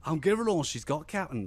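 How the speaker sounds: badly faked Scottish engineer; poor imitation of a Scottish accent; terrible Scottish accent. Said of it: "That was my terrible Scottish accent".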